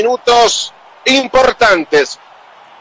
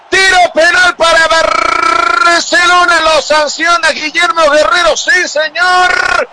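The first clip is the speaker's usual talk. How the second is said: excited announcement; 5 semitones higher, slower than usual. Real, not acted. Penalty announced by commentator.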